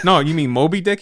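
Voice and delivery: mildly questioning retold correction; puzzled correction. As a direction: gently check what he meant, voice rising at the end. First correction in retold argument.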